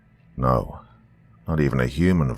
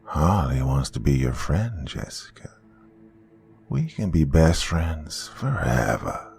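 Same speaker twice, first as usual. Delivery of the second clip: slow, with a whispered name; sweet and wrong, luring her in; creepy childlike creature. Acted. Harley lures the frozen girl, slow creepy sweetness.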